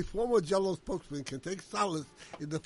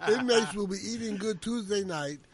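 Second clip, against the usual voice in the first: lisping without front teeth. Real, not acted. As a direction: read it with a toothless lisp. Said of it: "with a horrible lisp".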